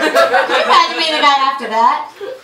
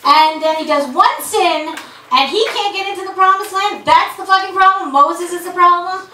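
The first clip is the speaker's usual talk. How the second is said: incredulous outrage; 6 semitones higher, 3 dB louder than usual. Acted. Incredulous rant about Moses.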